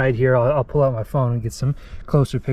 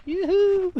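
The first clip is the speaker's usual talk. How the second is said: calling out. Real, not acted. Calling out across the canyon.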